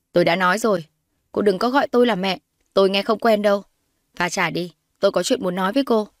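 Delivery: lightly voiced haughty mother, firm rebuff; mildly stern, hostile mother; cold disowning mother. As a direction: put the girl in her place.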